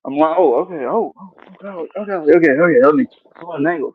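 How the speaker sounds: straining mid-exercise; talking between push-ups; doing push-ups. Real, not acted. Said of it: "Oh, you're doing jumping jacks?".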